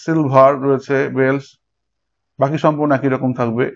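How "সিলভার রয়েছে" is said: সিলভার broken into two beats, সিল and ভার; split into syllables. Shown as a demonstration. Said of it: "সিলভার ভেঙে যাবে". (সিলভার শব্দটি দুই ভাগে ভেঙে)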